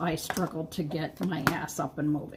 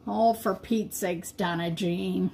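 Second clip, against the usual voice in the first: self-scolding plain. Real, not acted. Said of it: "got me all riled up".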